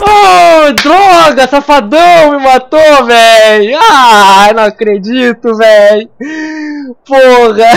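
loud, high furious gamer outburst; panicking gamer. Real, not acted. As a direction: yell in raging disbelief at dying. Morre na partida. (jogador gritando de raiva e desespero)

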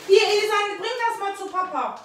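hohe, laute Ammensprache zum Kind; Kleinkindsprache. Real, not acted. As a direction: singsang wie mit einem Kleinkind. Mutter spricht mit Kleinkind. (hoch und freundlich zum Kind)

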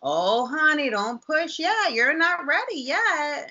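high, slow sing-song nurse voice; mock sweet nurse telling her to wait. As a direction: coo it down like a patronizing nurse. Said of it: "they're like".

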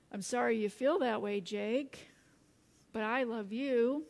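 mildly calm, measured mother's reply. Retold or imitated. Mother answering her frustrated son, calmly. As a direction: answer evenly, with little push. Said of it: "she replied calmly".

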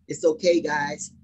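mock casual.

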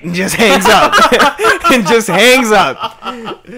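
high, loud, cracking up; helpless laughter around the words; laughing while talking. Real, not acted. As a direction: tell it through real laughter. Laughing at the call's ending.

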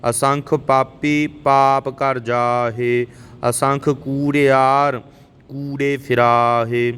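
slow, measured Gurbani recitation; scripture recitation. Shown as a demonstration. Teacher models Japji verses for learners, measured recitation. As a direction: recite line by line, drawing out the endings.

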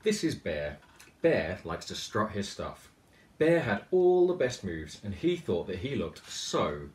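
put-on lively read-aloud storytelling for children; animated picture-book reading; story narration. A narrator's reading. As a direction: tell it like a bedtime picture book. Author reads picture book aloud.

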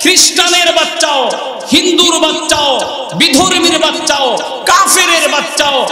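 rhythmic shouted sermon refrains; fiery preaching. Acted. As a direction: preach at full force to the crowd.

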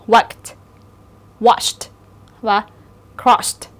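teacher demonstrates Worked, watched, crossed with ED as a crisp t; final ED as t. Shown as a demonstration. Teacher models the ED rule, endings said as t. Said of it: "E D đó sẽ được phát âm là âm t".

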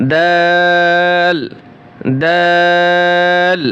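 very slow, long-held দাল; drawn-out letter. Shown as a demonstration. Teacher showing students the long pull on দাল. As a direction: stretch দাল over three alif beats. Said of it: "তিন আলিফ টান হবে।".

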